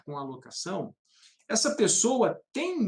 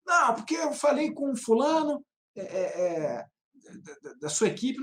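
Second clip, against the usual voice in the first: higher, mildly raised imitation of the tenant; a touch of a raised, insistent voice; 6 semitones higher than usual. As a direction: mimic the tenant pushing back in a raised voice. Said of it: "com um tom de voz já elevado".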